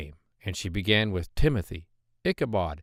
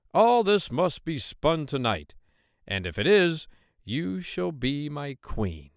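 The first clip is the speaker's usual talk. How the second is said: stately king; 5 semitones higher than usual. Acted. King sets the last task.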